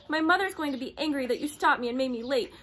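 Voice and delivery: high, loud tearful wail; girl cries to the soldier about the ruined lunch; crying. A narrator's reading. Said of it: "she began to cry".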